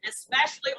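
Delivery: "especially" leaned on as if in bold; stress on especially. Real, not acted. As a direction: lean firmly on "especially" to open the phrase. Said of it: "I should have bolded".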